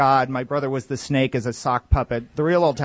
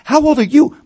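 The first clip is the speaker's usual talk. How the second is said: louder, higher gloat; mock bragging shout; 4 semitones higher, 7 dB louder, slower than usual. Immortal corporate neighbor bragging about age, loud higher gloat. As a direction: brag it, loud and slow. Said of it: "shouting match".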